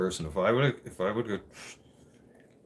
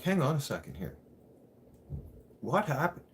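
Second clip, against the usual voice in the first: alarmed interruption; 8 semitones higher than usual. Retold or imitated. Interrupting the judge retold.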